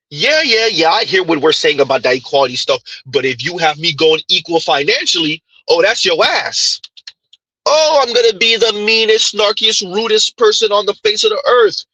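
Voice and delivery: high, lightly voiced sassy woman; mock snarky woman. Host paraphrasing the lady's threat, mock sassy voice. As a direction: play her brushing off equality, half-hammed.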